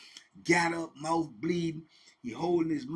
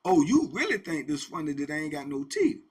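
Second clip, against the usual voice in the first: louder, affronted retort, retold; offended challenge; 5 dB louder than usual. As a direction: act out taking offence at a joke. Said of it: "he felt like some type of way".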